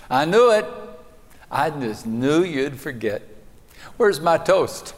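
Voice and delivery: put-on an old wife fed up with her forgetful husband; exasperated wife. A narrator's reading. Wife scolding husband over forgotten toast, exasperated. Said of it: "shakes her head and rolls her eyes and sighs".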